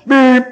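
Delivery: high, loud, drawn-out beep; car horn honk. Retold or imitated. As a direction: lean on the horn with your voice.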